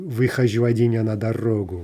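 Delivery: "Выхожу один я на дорогу" read like verse; poem title recited. Shown as a demonstration. Teacher naming the Lermontov poem in verse. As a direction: recite the title line evenly. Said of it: "from Lermontov's".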